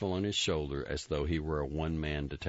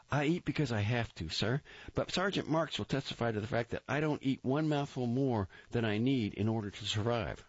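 high, eager recruit reporting; Grossbart voice; 8 semitones higher than usual. A narrator's reading. Recruit reporting to the captain, high eager voice. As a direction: snap it out high and keen. Grossbart pleads his case.

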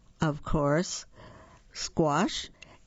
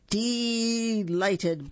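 higher, hammed-up elephant exclamation; booming; 6 semitones higher than usual. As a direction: boom it out, pleased. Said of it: "boomed Elephant".

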